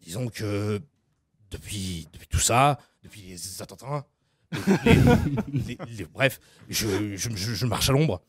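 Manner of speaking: put-on low halting drunk mumble; a mild low stammering singer; impression of a singer.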